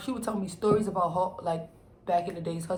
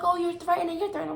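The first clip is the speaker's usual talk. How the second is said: imitating the shelter lady; 10 semitones higher, faster than usual. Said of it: "She like".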